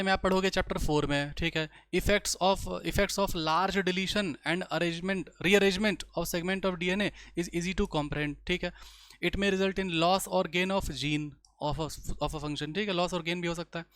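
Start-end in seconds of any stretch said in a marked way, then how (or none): 1.9-8.3 slow, measured reading of English text; textbook read-aloud. Acted. Teacher reads a textbook line to the class, slow read-aloud. 9.2-12.7 slow, measured reading of English text; textbook read-aloud. Acted. Teacher reads a textbook line to the class, slow read-aloud.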